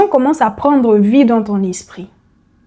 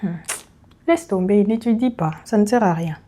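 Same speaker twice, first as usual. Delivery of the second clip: softer, sighing dismissal of studying; lazy tempting voice; 2 semitones lower, 6 dB quieter, faster than usual. Retold or imitated. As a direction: murmur it like a lazy inner tempter. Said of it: "la petite voix va te dire". (petite voix paresseuse, plus douce)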